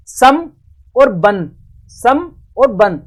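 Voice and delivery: सम closing on "m", बन closing on "n"; nasal contrast. Shown as a demonstration. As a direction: sound सम with "m" and बन with "n", slowly. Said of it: "दोनों का उच्चारण अलग हो रहा है".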